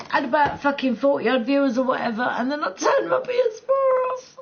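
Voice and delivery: talking through giggles; laughing. Real, not acted. Telling viewers the mishap, through laughter. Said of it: "laughing while telling".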